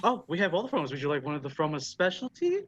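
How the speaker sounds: lightly voiced Irish hostess; a hint of put-on Irish barkeep; Irish Mrs. Doubtfire. Dwarf bartender suggesting a house specialty, light put-on Irish accent. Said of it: "Irish Miss Doubtfire".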